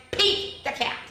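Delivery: high, showy announcement of the name; grand title reveal. Acted. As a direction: announce the star like a showman.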